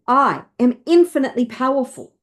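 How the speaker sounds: heartfelt affirmation, slightly lifted; with feeling. Shown as a demonstration. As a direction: say it with real feeling. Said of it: "Say it with feeling".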